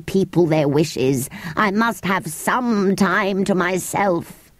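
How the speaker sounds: lightly voiced weary, grumbling creature; a hint of peevishness, stretched at the end; grumpy creature. Creature complaining of endless wishes, mildly peevish.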